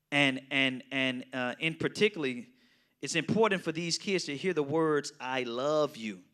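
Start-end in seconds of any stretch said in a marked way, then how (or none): 5.2-6.2 slow, sincere "I love you" with nothing added. Shown as a demonstration. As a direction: let "I love you" land slowly and fully. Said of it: "Standing alone".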